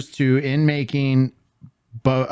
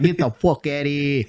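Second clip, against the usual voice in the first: try-hard New York accent. Shown as a demonstration. Host repeating their one accent line, rough New York accent. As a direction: toss off a badly faked New York line. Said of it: "that's the only thing I can probably do is".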